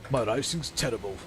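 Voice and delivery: badly faked Brummie; bad Birmingham accent. Shown as a demonstration. Streamer regrouping for another try, bad Birmingham accent. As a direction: have a go at a mock Birmingham accent. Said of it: "made me do a Birmingham accent".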